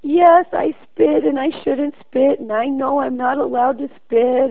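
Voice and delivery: imitating a crying five-year-old confessing; crying kindergartner. A boy confessing spitting to the principal, in mock sobs. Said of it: "started crying".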